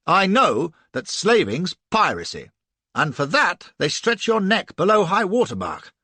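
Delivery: loud, furious threats; angry tirade. A narrator's reading. Flashman threatening the captain with hanging, loud angry tirade. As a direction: rage and threaten him.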